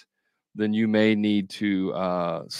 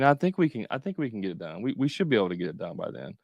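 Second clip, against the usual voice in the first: hedging, trailing off quieter then rushed; unconfident answer; 4 dB quieter, faster than usual. Shown as a demonstration. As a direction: sound unsure of the deadline. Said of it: "That is not a confident answer".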